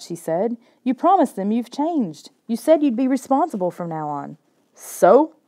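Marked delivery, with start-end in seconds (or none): 0.8-4.4 scolding. Acted. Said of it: "Kayla wasn't finished scolding me". 4.7-5.3 louder, sharp comeback; defiant retort. Acted. Brother shooting back at his scolding sister, defiant. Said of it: "I shot back".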